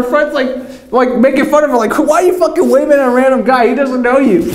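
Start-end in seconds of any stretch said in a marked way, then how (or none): 2.0-4.5 mock teasing friend. Friend mocking her.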